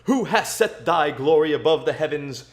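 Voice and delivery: solemn, measured King James reading; scripture reading. Acted. Streamer reads Psalm eight to chat between races, solemn scripture voice. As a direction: read it like a preacher at the pulpit.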